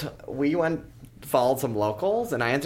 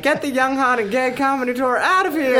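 high, loud hammed-up villain; 12 semitones higher, 5 dB louder than usual. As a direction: play the dog gang boss. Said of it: "they were like".

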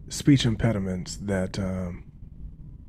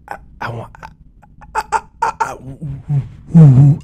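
stammering, stuck on every I; halting stammer, repeating the first word; stutter; 4 semitones higher, 10 dB louder, slower than usual. Shown as a demonstration. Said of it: "this is how I spoke".

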